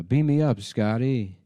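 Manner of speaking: hammed-up Kirk command; Captain Kirk impression. Chandler does Kirk to Joey, hammed up. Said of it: "doing a Captain Kirk impression".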